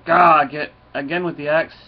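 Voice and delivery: loud mock yell from a wounded dragon; hammed-up dragon hollering at his friend; retold dragon pleading with Thor, mock loud. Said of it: "The dragon starts yelling".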